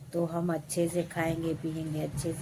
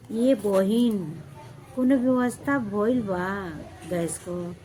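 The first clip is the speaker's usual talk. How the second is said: imitating nosy neighbour; 2 semitones higher, 4 dB louder than usual. Neighbour asking about gas arrangements, mock sweet voice. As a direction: fake caring, sing-song. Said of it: "मैं बोलती हूँ".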